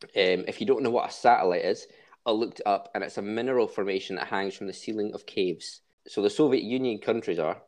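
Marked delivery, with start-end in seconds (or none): 6.1-7.7 words breaking into a real laugh. Real, not acted. Host reading the country list, laughing at his own joke. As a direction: try to read on while cracking up.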